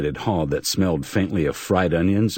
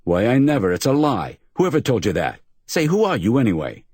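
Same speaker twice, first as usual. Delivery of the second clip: high, flustered protest; a touch of startled fluster; 7 semitones higher than usual. Acted. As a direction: caught off guard, sputtering.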